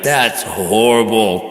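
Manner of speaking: mock mom outrage. Quoting mom's reaction.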